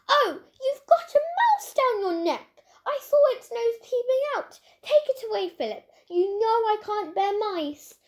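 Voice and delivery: high, loud squealing panic at a mouse; panicked shriek. Acted.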